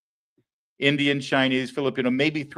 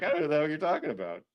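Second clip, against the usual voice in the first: mock prime minister; 3 semitones higher, 7 dB quieter, faster than usual. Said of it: "the Irish Prime Minister's like".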